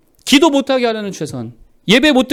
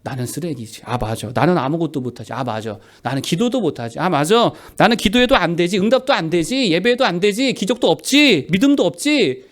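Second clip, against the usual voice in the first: mock resigned agreement, low then building; resigned self-defeat; 4 semitones lower than usual. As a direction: give in to the accusations, gradually rising from low. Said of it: "바보들은 어떻게 살아간다고요".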